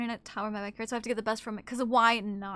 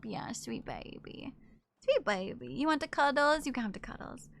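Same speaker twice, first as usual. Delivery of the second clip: soft cooing; 4 dB quieter than usual. Real, not acted. Cooing to cat.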